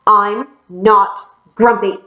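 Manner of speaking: slow, emphatic denial; mildly indignant, deliberate protest; insistent. Acted. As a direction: insist on it word by word. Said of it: "Jim insisted".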